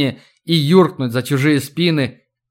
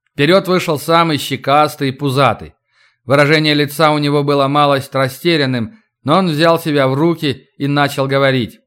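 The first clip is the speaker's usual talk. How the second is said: usual speaking voice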